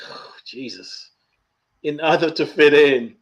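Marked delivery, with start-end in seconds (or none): 0.1-1.1 slow, very soft sigh of dismay; hushed dismay. Real, not acted. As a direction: breathe it out low and slow. Looking back in dismay.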